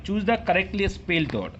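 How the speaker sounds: very slow, word by word; slow dictation read. Shown as a demonstration. Teacher dictating the question to students, slow and deliberate. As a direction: read the question out slowly for the class.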